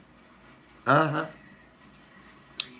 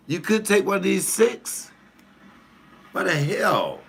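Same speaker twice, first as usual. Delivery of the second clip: escalated incredulous question; 11 semitones higher than usual. Retold or imitated. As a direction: push the disbelief further on the repeat. Repeating the question, more outraged.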